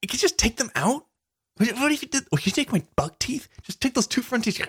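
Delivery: high, fast, eager pleading; excited high-pitched asking; giddy request. Pretend. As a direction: beg the dentist with childish glee. Excited pleading with imagined dentist.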